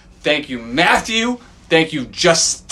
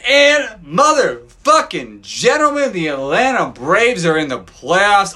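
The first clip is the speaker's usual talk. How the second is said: slow, higher, grand announcer opening; mock announcer intro; 4 semitones higher than usual. Host opens his podcast as a mock ring announcer.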